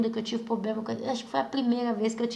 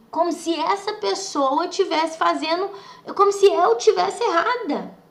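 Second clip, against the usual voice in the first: indignant protest; 7 semitones higher, 6 dB louder than usual. Real, not acted. Narrator telling listeners she was wrongly blamed, indignant. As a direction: voice climbing high and loud.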